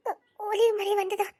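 slow tearful question; wife crying, slowed down. Acted. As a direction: speak through sobs, wounded. Wife crying over betrayal.

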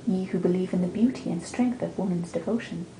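steady, rhythmic verse reading; poem recital. Acted. Quoting Evangeline's lines, measured recital voice. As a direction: read it like an old tradition.

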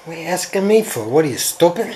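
high, loud mock scolding; mock scolding snap. Man mocking himself for talking to the camera, high loud scolding. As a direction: scold yourself in jest, loudly.

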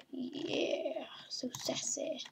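soft teasing whisper; sassy whisper. Pretend. Gamer whispering back as the sassy companion. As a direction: tease it under your breath.

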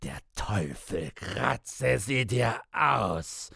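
very high, screaming rage; raving. A narrator's reading. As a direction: rave and curse at the top of your voice. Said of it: "Piepsam tobte noch immer".

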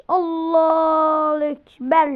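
crying out. Real, not acted. Crying out while fighting.

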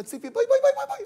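very high, rapid-fire summons; scolding mother. Acted. Mother to daughter leaving in a shirt, high scolding call. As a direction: call her over in a high mock-motherly voice. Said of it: "את אומרת לה".

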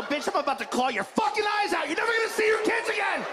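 a mock threat from a cat who wants the hamster; menacing cat. Cat threatening its owner, in a mock menacing voice. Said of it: "They're just letting you know".

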